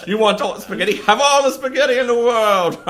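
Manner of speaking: Tony Twist gloating at the spaghetti lover; laughing taunt. Retold or imitated. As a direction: taunt him through laughter. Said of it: "so he was like".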